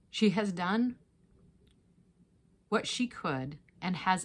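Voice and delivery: measured, projected Bible reading with deliberate pauses; firm storytelling delivery, phrase by phrase; scripture reading. A narrator's reading. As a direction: read the gospel story aloud clearly and emphatically. Reads scripture passage aloud.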